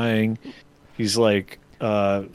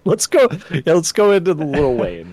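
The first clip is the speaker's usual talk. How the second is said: hyped shout; 5 semitones higher, 4 dB louder than usual. Real, not acted. Hyped call to read comments.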